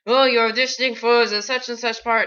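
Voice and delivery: imitating a weird, vaguely French accent; best attempt at the director's odd foreign accent; Tommy Wiseau. Director asking an actor about the part, weird accent. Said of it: "this is the best I can do".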